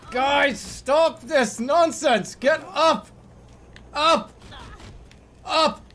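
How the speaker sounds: loud high exasperated commands; shouting orders. Real, not acted. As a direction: yell at them to get up. Ordering characters to get up.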